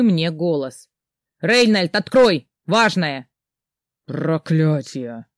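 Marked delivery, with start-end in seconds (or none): 1.4-3.3 louder, urgent call; calling through door. Acted. Friend pounding on the door. 4.0-5.3 low, slow growled curse; drake. Acted. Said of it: "прорычал дракон".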